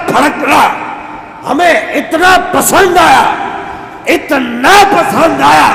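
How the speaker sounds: slow, high, loud impassioned preaching; preaching at full force. Acted. Preacher voicing God's words to Moses, impassioned. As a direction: shout it out slowly from the pulpit.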